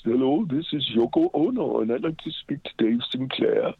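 put-on a faint Japanese-accented Yoko Ono voice, timbre shifted; half-hearted stab at Yoko Ono's accent on the phone; imitating Yoko Ono. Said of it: "I can't do Yoko's accent".

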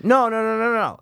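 high, loud repeated no; emphatic denial. Real, not acted. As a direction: shut the idea down fast. Insisting it's not parody.

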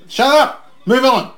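real playful yelling; playful shout. Real, not acted. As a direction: shout him down to move on.

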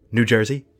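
lightly voiced movie quote; a hint of a dim film character, questioning; Jim Carrey. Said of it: "It sounds like Jim Carrey".

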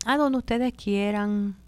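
soft, slow, half-whispered answer; acted meek go-along murmur; passive, deferring reply. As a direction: trail it out meekly, leaving the choice to others. Voicing the passive person's answer.

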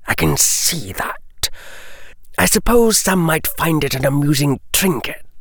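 a smooth, menacing lord toying with a trinket; Lucius's voice. Acted. Lucius dismisses the pen.

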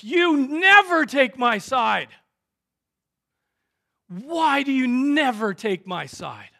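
loud, high-pitched outburst at a wife; angry complaint. Retold or imitated. Husband accusing his wife of never backing him, angry and loud. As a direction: raise your voice in aggrieved protest, leaning hard on never. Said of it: "going off and loudly complaining".

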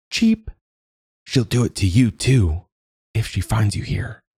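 chirpy high warning; high bird voice. A narrator's reading. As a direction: warn her in a small bird voice. Bird warns Rapunzel.

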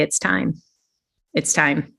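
soft, understated nudge; hushed inner prompting; quiet inner voice. Retold or imitated. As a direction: say it softly, like a thought surfacing.

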